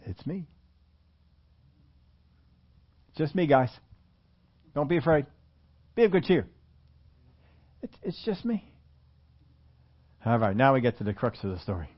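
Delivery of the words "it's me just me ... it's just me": soft, tender reassurance to frightened disciples; calm them gently, almost whispered at the end; gentle reassurance. Retold or imitated. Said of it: "he says".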